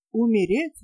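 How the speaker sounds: a mild startled exclamation with a rising end; exclaiming. Acted. Lovesick captain exclaiming at her wish to die. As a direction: catch her word back in surprise. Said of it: "воскликнул влюблённый капитан".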